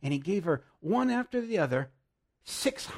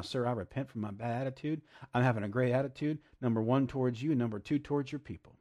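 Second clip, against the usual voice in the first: model prayer; 3 semitones lower, faster than usual. Acted. Preacher voices a model prayer.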